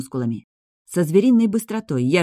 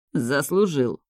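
сиплый, сдавленный голос; просипеть через силу; сипло; slower than usual. A narrator's reading. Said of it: "просипел он". (с сипом, едва выдохнув)

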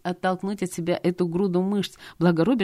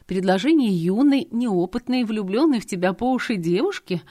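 louder, pressing mother-in-law; pressing reproach; 4 semitones higher, 4 dB louder than usual. Acted. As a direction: push hard, accusing. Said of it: "продолжала напирать свекровь".

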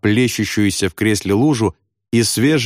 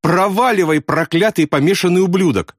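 tearful curse; 8 semitones higher than usual. A narrator's reading. Continued sobbing curse.

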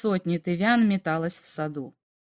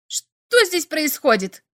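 higher, slow demanding shout; 6 semitones higher, 4 dB louder, slower than usual. A narrator's reading. Klix shouts on finding the fleeing aliens, demanding. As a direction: call out sharply across the garden. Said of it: "закричал он".

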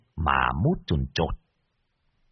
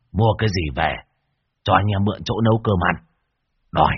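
cocky dismissal; 4 semitones lower than usual. Acted. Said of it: "hất hàm một cái".

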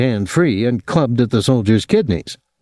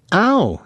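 mock pained cry; 10 semitones higher than usual. A narrator's reading. Tom to crowd after the soldier's slap, mild scream. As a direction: yelp "ow" in feigned pain. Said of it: "he screamed".

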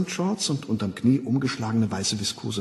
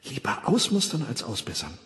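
hypnopaedic slogan; 3 semitones higher than usual. Acted. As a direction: repeat it gently like a recording. Schlafschul-Parole. (leise eingetrichterte Parole)

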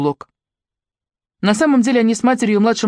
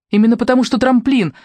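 firm and a bit louder; convinced; 5 semitones higher, 3 dB louder than usual. Acted. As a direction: say it with certainty. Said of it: "убеждённо сказала Маша".

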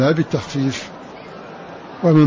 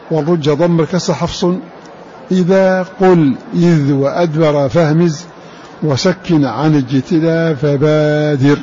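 poem recitation; slower than usual. Acted. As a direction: chant the Shatibiyya verse slowly. Chants the verse. (إنشاد بيت الشاطبية)

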